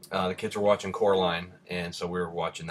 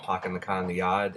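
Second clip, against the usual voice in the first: put-on Rhode Island accent, dropped r's. Shown as a demonstration. Vlogger showing how he talks at home, Rhode Island accent. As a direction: talk like family back in Rhode Island. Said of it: "less of my Rhode Island accent".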